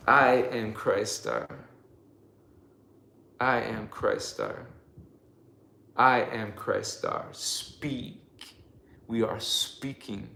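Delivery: slow, measured affirmation with long pauses; leading affirmations. Acted. Leading viewers in "say it with me", solemn affirmation. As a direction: say it slowly and solemnly for others to repeat.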